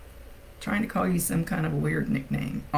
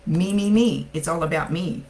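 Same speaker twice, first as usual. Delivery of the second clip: louder, boastful me me me; proud boast; 4 dB louder than usual. Retold or imitated. Sean bragging that it's all about him, boastful. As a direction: crow about himself playfully. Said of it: "He's proud of that".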